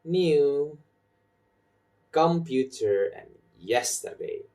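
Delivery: "new", "computer", "yesterday" set apart, each stressed; stressed content words. Shown as a demonstration. Teacher lists the stressed words, leaning on "new", "computer", "yesterday". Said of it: "I put my stress in".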